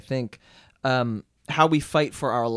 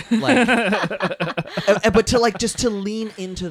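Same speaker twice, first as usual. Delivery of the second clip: laughing attempt; 9 semitones higher, 6 dB louder than usual. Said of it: "in your horrible Irish accent".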